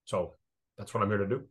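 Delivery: quick, soft rattled-off stock answer; mock Tiger press line. Imitating Tiger's press-conference answer, quick and soft. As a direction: reel it off like a practised media line. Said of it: "that's his stock line".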